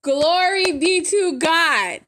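fervent praise. Real, not acted. Repeats praise with more fervour.

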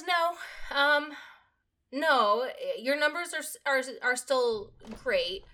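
lightly voiced manager, drawing out the reassurance; retold manager. Manager tells worried employee her numbers are fine, retold manager. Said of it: "She goes".

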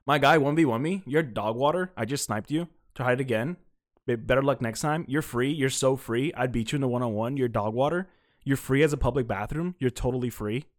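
lightly imitated Fortnite trash-talker; string out taunts, each ending lifted like a kid's; mock kid gamer with upturned phrase ends; mimicking gamer kid. Shown as a demonstration. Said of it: "This is how these kids talk".

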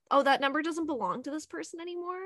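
a lightly put-on English-to-Irish accent on the phone; phone voice in a mild put-on accent; random put-on accent. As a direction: fake an accent to dodge a caller. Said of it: "putting on random accents".

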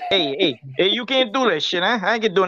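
mock Italian-American New York accent; put-on New Yorker with an Italian streak. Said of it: "He went Italian".

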